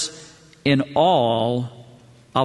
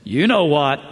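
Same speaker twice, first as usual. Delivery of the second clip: sheepish parrot. Acted. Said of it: "cuts his eyes over at the store owner and says".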